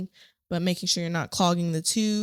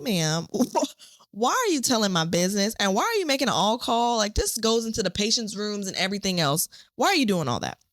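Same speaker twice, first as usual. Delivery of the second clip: mock-indignant questioning, pitch jumping about; lightly acted, exasperated telling-off; indignant protest; 3 semitones higher than usual. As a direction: protest in disbelief at being exposed. Retelling protest at the secretary's page.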